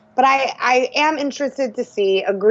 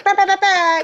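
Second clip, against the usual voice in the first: mock fanfare; 7 semitones higher than usual. Imitates a surprise-reveal fanfare.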